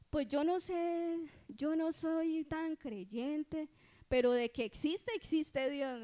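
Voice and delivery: imitating a doctor conceding, drawn out at first; lightly acted reluctant sceptic; hesitant admission. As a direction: concede it slowly, then land firmer on the belief.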